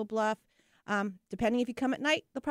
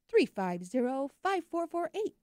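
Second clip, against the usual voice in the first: ad read phone number; 4 semitones higher than usual. Real, not acted. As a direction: read the number like a radio spot. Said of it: "I used to do ads with my number".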